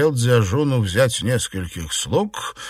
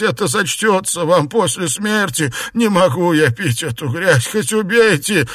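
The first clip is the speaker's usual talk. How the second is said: desperate begging; 7 semitones higher, 3 dB louder than usual. Acted. Xuepan refuses, begging.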